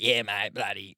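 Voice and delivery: put-on New Zealand accent. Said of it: "a bit of a New Zealand twang".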